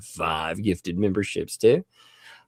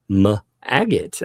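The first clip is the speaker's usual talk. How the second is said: slow, careful name; 4 dB louder than usual. Real, not acted. Host thanking a gifter by name, said slow. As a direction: take the name slowly and deliberately. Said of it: "I always have to say that slow".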